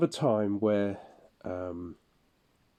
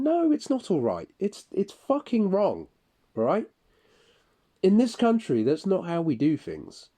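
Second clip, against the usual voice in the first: much higher, loud angry rant; furious shouting; 10 semitones higher, 5 dB louder than usual. Retold or imitated. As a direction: shout him down in a rage. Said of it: "lost my temper then".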